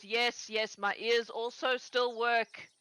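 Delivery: slow, weary and dry; dry old husband. Acted. Old man answers his chattering wife, slow and dry. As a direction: drag it out, unimpressed. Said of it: "And Morris goes".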